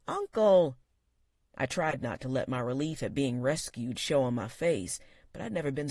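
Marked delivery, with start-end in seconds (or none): 0.1-0.8 sharp louder call. A narrator's reading. Niece stopping her uncle, sharp call. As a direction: stop him with one word. Niece calls out to stop him.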